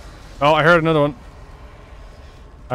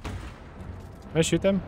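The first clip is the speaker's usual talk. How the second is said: hushed unvoiced whisper; 3 semitones higher, 8 dB quieter, slower than usual. Real, not acted. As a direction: whisper it so they don't hear. Sneaking up on monsters.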